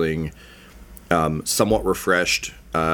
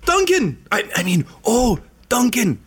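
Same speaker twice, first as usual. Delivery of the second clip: gushing gnome; 3 dB louder than usual. Acted. Gnome Peachtree greeting Duncan with overplayed joy. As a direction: fake delight at finding Duncan. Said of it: "she's just like".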